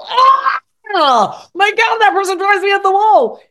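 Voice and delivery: loud, high frustrated outburst; venting anger. Shown as a demonstration. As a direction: let the anger burst out way up high. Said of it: "dump all that anger out".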